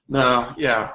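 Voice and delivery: usual speaking voice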